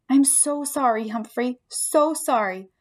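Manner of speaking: slow, gentle sorry to the pet; girl comforting her hamster, lightly voiced and gentle; soothing apology. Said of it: "Miranda's soothing words".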